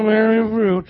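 mock half-hearted mumble, imitating the crowd; unenthused congregation. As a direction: mumble it back with no excitement. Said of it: "say it like you're excited".

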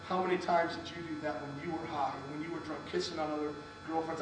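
soft imitated voice of God; quiet rebuke. God reminding him of his own cheating, quiet rebuke. God's quiet rebuttal, retold.

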